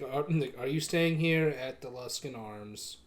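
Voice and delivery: flat, even innkeeper drone; monotone voice. Acted. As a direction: say it with no inflection at all. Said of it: "very monotone voice".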